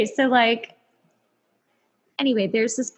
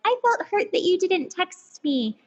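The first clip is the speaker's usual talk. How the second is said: reading own text aloud; 8 semitones higher, slower than usual. Retold or imitated. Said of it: "I write out this text".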